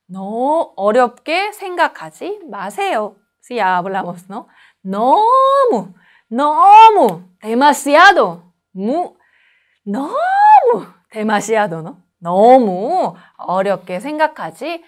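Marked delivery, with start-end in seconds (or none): 4.8-10.9 너무 drawn out slowly, pitch swooping up; stretched word. Shown as a demonstration. Teacher to class stretching 너무 slowly. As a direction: drag out 너무 with a big rise. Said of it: "teacher stretching word 너무".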